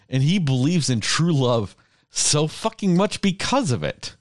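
worked-up rant, pitch leaping high; angry, emotional. Real, not acted. Fan ranting to friends about a firefly's true love, angry and emotional. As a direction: vent with real exasperated passion. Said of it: "You're, like, angry that you're so emotional about it".

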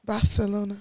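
"Barcelona" with the c as th; Castilian lisp on the c of "Barcelona"; lisped Spanish pronunciation. Shown as a demonstration. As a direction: say "Barcelona" like Bar-the-lona. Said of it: "That's how you say it".

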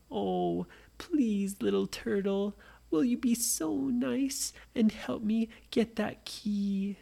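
put-on a child sweetly begging a small animal; pleading. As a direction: coax the turtle gently, asking nicely. Nora begs the turtle.

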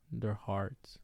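unvoiced whispered trail-off; whispered, wistful ending. Real, not acted. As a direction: let the words die to a whisper.

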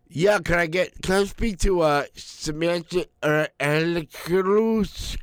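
sounding out a French name he can't say; a caller stumbling on a stranger's name, stretched out high; phone-call voice. Retold or imitated. Struggling to pronounce French name.

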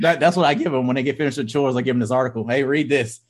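high, fast, playful teasing; mock teasing parent. Dad mock-teasing his kids about chore money. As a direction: tease the kid in a light singsong.

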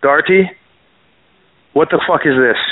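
put-on gruff grandfather in a thick Canadian accent. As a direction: bark the name with a heavy Canadian accent. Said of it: "in his thick Canadian accent".

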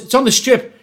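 indignant. Retold or imitated. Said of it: "I goes".

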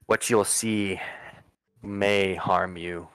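put-on slow, measured old woman's warning; grave warning. Old lady warns the players.

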